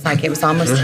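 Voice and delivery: trailing off into a laugh; half-sentence dissolving into laughter. Real, not acted. Laughing at her own school loyalty.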